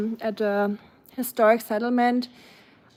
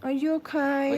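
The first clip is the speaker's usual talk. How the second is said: higher-pitched, tender check-in; concerned pet talk; 4 semitones higher than usual. Real, not acted. Cooing concern to hurt pet.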